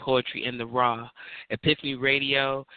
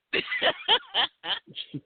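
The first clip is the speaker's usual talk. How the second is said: high squealing laugh; gleeful squeal of laughter; delighted laugh. Real, not acted. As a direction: shriek with delight at the poem. Host delighted by poem.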